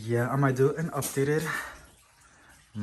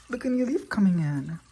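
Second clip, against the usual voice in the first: excited gasp; 8 semitones higher than usual. Real, not acted. Spots new leaf.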